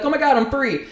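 high, gushing mock joy; mock triumph. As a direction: parody a boastful poster. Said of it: "to be like".

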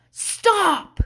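high, loud drawn-out yell; imitated baby yell. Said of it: "started to yell".

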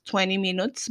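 English words in Spanish speech; spanglish. Real, not acted. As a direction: switch into English briefly. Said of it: "estoy hablando en Spanglish".

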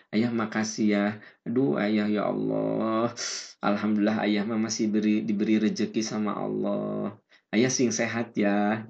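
istri berterima kasih dengan lembut pelan; lembut terharu. Retold or imitated. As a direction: bisikkan syukur pada suami dengan lembut. (istri berterima kasih dengan lembut pada suami)

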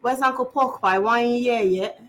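imitating a heavy, clipped-word English accent. Retelling a Desmond relative's question, heavy accent. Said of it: "That was very heavy".

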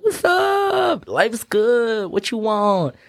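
high shouted cartoon donkey. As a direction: yell it up high like a brash donkey. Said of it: "And the donkey's like".

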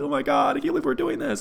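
high-pitched, overcome lover's gush; mock infatuated. Lover in bed so into somebody, mock infatuated gushing. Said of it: "because you're so into somebody".

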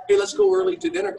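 high, fast, bright mimic of his wife's suggestion; mimicking the wife. Retelling his wife Dawn's dinner suggestion, high quick mimic. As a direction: pitch way up and rush it like his wife. Wife Dawn voiced in story.

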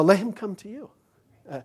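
ordinary talk

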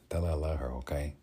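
lightly attempted Tony Montana Cuban accent; understated Cuban-accented phrasing. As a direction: try a mild Cuban accent. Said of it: "keep working on that accent".

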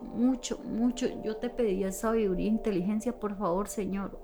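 pleading prayer. Retold or imitated. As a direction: pray under your breath, imploring. Retells her desperate prayer. (rezo suplicante en voz baja)

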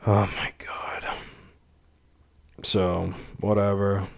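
breathless whisper of disbelief; whispered dismay. Real, not acted. Vlogger stunned by the car bill, whispering in dismay.

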